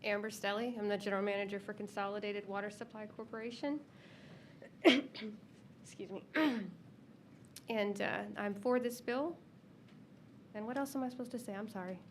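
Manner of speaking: stuffy nose, congested voice; head cold. Real, not acted. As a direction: speak through a stuffy nose. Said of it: "I have a cold".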